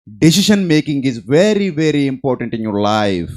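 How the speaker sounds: very slow, each word spaced out; slow emphatic maxim. Acted. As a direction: lay down the lesson word by word. (నెమ్మదిగా నొక్కి చెప్పడం)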